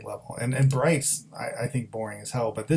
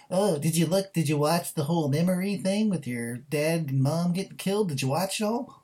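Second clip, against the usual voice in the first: mocking English accent, lightly put on and a touch higher; 4 semitones higher, 4 dB quieter than usual. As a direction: taunt in a jeering English accent, as if the film's hero is speaking. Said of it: "That's a pretty good English accent".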